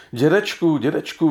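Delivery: high, urgent cry of grandpa; blurted out. A narrator's reading. Boy blurting to grandpa at the sickbed, high and urgent. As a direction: blurt it out in sudden alarm. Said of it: "vyhrkl Jirka".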